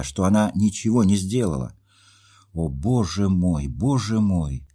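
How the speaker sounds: Nastenka's hurt pleading, a mild lift of voice; pleading young woman. Acted. Jilted young woman pleads with her friend, lightly voiced.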